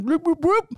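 high bloop siren noise; siren imitation. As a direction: mimic a police siren chirp.

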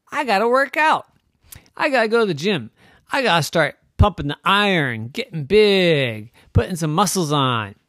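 high, loud gym pep talk; pumped-up plan. A narrator's reading. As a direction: hype yourself up to train. Psyching himself up.

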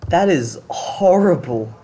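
slow, breathless whisper of disbelief; shocked whisper. Real, not acted. Shocked reaction to the story.

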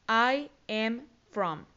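very slow, each word separated; slow model phrase. Shown as a demonstration. Teacher models phrase slowly. (frase modelo muy lenta, palabra por palabra)

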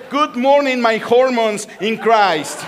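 loud, high mock stage greeting; mock public greeting. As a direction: proclaim it slowly to the whole congregation. Translating the botched stage greeting.

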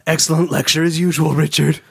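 a hint of a fawning assistant; lightly played eager assistant; lightly voiced Emma Stone. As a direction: sweet-talk the boss lightly. Emma Stone character line.

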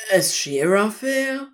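name as a stunned question, rising at the start; shocked. A narrator's reading. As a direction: ask "Aziraphale" in shocked disbelief.

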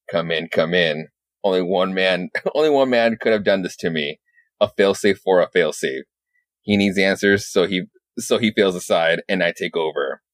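low, grave narration voice; lightly voiced brooding Batman; Batman monologue. Batman's inner monologue over the radio call, low. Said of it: "And the monologue".

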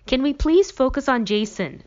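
sharp, high and loud snap; snapping. A narrator's reading. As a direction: bite the words off, fed up. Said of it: "Elizabeth snaps".

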